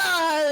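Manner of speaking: short, high, loud "Ah!"; jump-scare yell. Retold or imitated. Trying to scare a sibling, a short high yell. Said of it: "really trying to scare".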